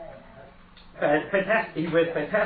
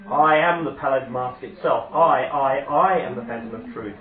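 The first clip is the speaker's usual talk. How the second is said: ominous stranger; 7 dB louder, slower than usual. Acted. Stranger reveals himself.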